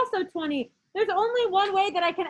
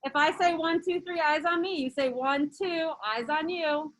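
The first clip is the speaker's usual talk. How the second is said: kindergarten teacher voice; slower than usual. Shown as a demonstration. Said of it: "Let's try it again".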